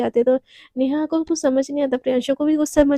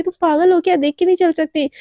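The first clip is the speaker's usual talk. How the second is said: angry; 3 semitones higher, 4 dB louder than usual. Acted. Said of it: "एकदम गुस्से में देखती है".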